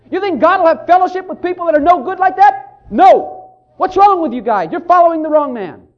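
rising to an outraged shout; indignant Pharisee rant. Retold or imitated. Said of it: "peeked in ... and said".

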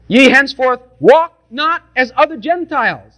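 measured King James reading; scripture reading. Real, not acted. Preacher reading Ephesians to the congregation, measured scripture voice. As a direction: read it out like holy writ.

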